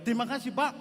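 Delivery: a careless quick "Terima kasih, Pak."; offhand thanks. Shown as a demonstration. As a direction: thank him casually, without care. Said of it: "tapi nadanya kan beda".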